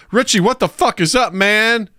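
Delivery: high-pitched, hammed-up British greeting; mock-British hello in a high voice; put-on British accent. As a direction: do a badly faked, over-keen British accent up high. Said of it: "a accent that long".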